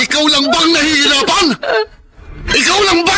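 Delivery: mataas at malakas na sigaw; galit na sigaw. Acted. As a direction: sumbatan nang pasigaw. Galit na asawa, pagtatalo. (galit na asawang lalaki, sumisigaw pabalik)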